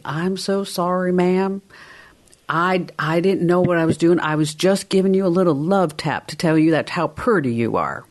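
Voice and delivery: put-on Southern accent. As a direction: put on a mild Southern accent to sweet-talk her. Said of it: "in that Southern accent".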